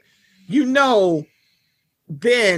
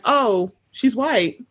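slow mock assumption; much slower than usual. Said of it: "you were like".

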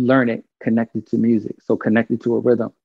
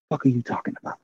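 much softer, under the breath, as a private thought; inner thought, muttered; 7 dB quieter, faster than usual. Retold or imitated. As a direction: say it to yourself, baffled, as if only in your head. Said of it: "in my mind, I was like".

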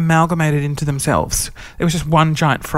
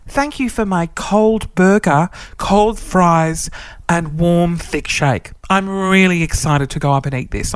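sarcastic thanks; 3 semitones higher, slower than usual. Retold or imitated. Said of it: "I wanted to be a real cunt".

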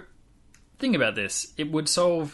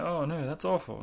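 mock dismay, pitched up a little; retold gutted dismay; 5 semitones higher than usual. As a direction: lightly act out someone gutted by news. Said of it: "he was gutted".

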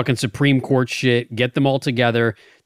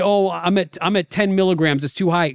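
mocking whine; 5 semitones higher than usual. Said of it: "'Cause you say".

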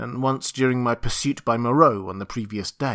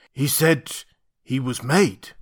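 ape-man voice; slower than usual. Acted.

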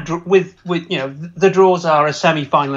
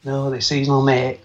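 a hammed-up, half-hearted Yorkshire accent; lightly put-on Yorkshire accent, slightly lower; pathetic Yorkshire accent; 3 semitones lower, 3 dB quieter than usual. Mocking a Yorkshire shopkeeper on seasonal sunglasses, in a weak Yorkshire accent. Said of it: "my frankly pathetic Yorkshire accent there".

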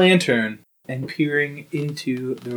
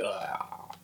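imitated grunt; 6 semitones lower, 17 dB quieter than usual. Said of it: "Terrence was like".

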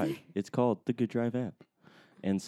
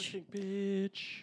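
announcer voice; 12 semitones higher, 9 dB quieter, much slower than usual. Pretend. Echoes game topic in mock voice.

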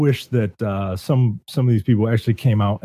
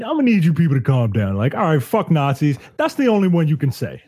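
mock scolding; 4 semitones higher than usual. Host jokingly scolds the swearing.

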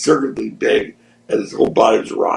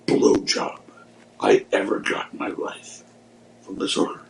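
hushed boast; 4 dB quieter, slower than usual. Retold or imitated. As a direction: lean in and brag under the breath. Friend boasting in locker room.

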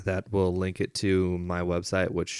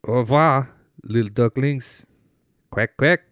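loud sign-off; 5 semitones higher, 7 dB louder than usual. Pretend. Big sign-off to listeners.

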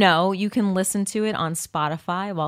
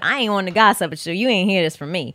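lightly put-on accent of a TV sketch gossip; ghetto gossip accent. Co-host quoting the sketch gossip, put-on accent. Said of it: "It was like a ghetto, like, remember in Living Color?".

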